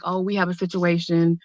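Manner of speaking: lightly voiced officer. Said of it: "they was like".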